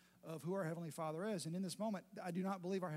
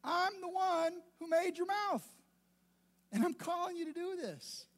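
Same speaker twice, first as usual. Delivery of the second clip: God speaking to Moses; 10 semitones higher than usual. Acted. God urging frightened Moses to go, booming and higher. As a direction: announce it like the Almighty reassuring a scared man. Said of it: "what he would say to Moses".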